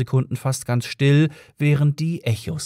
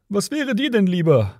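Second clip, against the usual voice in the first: higher-pitched mild shout; yelling back; 8 semitones higher than usual. A narrator's reading. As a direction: call the question back at them. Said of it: "schrie Ford zurück".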